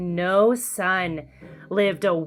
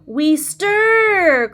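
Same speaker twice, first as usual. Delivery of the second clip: cried out; 9 semitones higher, 5 dB louder than usual. A narrator's reading. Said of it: "cried the two".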